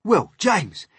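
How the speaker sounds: very high, loud, grandiose showing off; boastful centipede. Acted. Centipede seeking James's admiration, boastful shout. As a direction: build it up loudly, stretching the ending.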